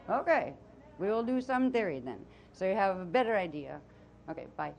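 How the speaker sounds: put-on channeled voice with a Transylvanian accent; Azara's Transylvanian accent. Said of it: "I'll come back from my, uh, Transylvanian accent".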